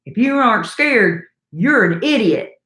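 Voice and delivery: lightly put-on Louisiana accent; amateur Louisiana accent, a little emphatic; bad Louisiana accent. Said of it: "I'm gonna do a bad accent".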